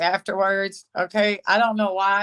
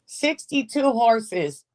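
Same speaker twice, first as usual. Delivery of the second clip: slow, disbelieving repeat of Sixty-two horses; incredulous; 3 semitones higher, slower than usual. Real, not acted. Vlogger mocking a commenter's claim, slow and incredulous. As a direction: stretch it out in disbelief.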